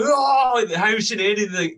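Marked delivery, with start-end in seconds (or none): 0.0-0.6 excited cheer. Retold or imitated. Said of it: "they all go".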